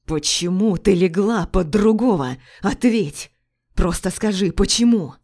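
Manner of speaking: loud furious demand building to a shout; jealous husband screaming at wife. Acted. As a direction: yell the last word in her face. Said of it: "буквально кричит".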